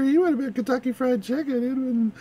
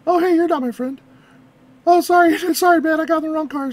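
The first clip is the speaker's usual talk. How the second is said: flustered, laughing sorry; laughing apology; 5 dB louder than usual. Retold or imitated.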